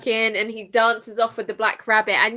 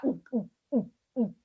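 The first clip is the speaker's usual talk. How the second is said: gulping noise; 6 dB quieter, faster than usual. Retold or imitated. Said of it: "that noise".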